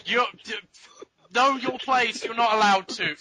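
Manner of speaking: stern father. Acted. Father forbidding his daughter.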